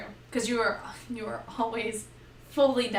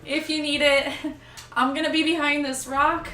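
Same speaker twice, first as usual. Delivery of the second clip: higher, louder, laughing timidly; timid healer; 4 semitones higher, 5 dB louder than usual. Retold or imitated. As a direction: hide behind the rock, giggling. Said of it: "I'm like".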